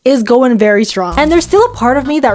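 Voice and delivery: lisping from new aligners. Real, not acted. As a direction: speak with a strong S lisp. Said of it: "my lisp is so bad right now".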